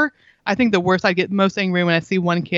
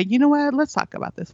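higher, gentle invitation to talk; calm invitation; 6 semitones higher than usual. Retold or imitated. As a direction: invite them kindly to talk. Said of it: "And later say".

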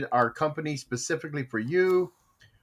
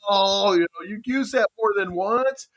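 higher-pitched mild mock scolding; mad grandmother; 6 semitones higher than usual. Grandmother scolding about reusing tea bags, mildly indignant. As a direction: correct them with a touch of exasperation. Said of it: "Grammy got mad at me".

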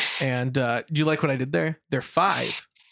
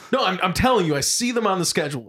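quick, raised-pitch stubborn protest; mock insistence; 4 semitones higher, faster than usual. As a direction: imitate someone refusing to be corrected. Acting out friend's stubborn prank insistence.

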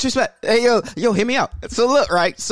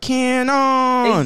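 long drawn-out, higher-pitched call; imitated yell; 7 semitones higher, 4 dB louder than usual. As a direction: call it out like his signature yell, stretching the end. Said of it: "he would always yell it".

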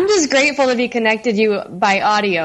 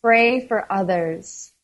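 calm, measured reading aloud; devotional reading. Acted. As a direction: read the devotion gently. Reads daily devotional.

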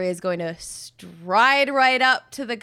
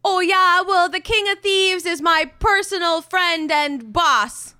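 cocky bluff; 6 semitones higher than usual. Acted. Bluffing guards in character.

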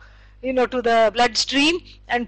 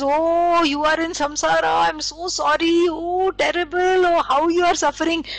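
gushing overdone sympathy, lightly raised; mock pity; 3 semitones higher than usual. A hint of a pitying teacher to a student, gushing. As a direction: ham up the sorry teacher. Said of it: "If the teacher says".

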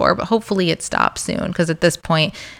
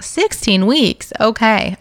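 higher, slow questioning disbelief; incredulous echo; 4 semitones higher, slower than usual. Retold or imitated. Pregnant patient hearing the nurse's estimate, mock incredulous. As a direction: repeat it back as if taken aback, then accept it.

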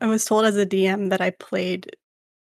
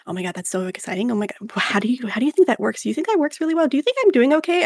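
excitable character voice; 4 semitones higher, faster than usual. Shown as a demonstration. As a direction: gush like an anxious, excitable character. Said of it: "is a very anxious, excitable character".

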